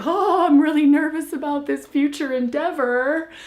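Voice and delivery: put-on nervous child.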